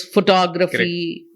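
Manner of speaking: phoTOgraphy with TO stressed; photography, second-syllable stress. Shown as a demonstration. Trainer showing word stress, phoTOgraphy stressed on TO. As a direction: lean on TO in photography. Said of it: "it is not photograph".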